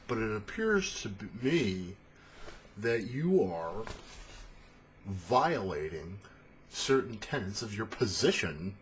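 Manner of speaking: slow, measured, chest-puffed address; self-righteous paladin taking his time. Acted. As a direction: confront them formally with chest out. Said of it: "chest puffed out and shit".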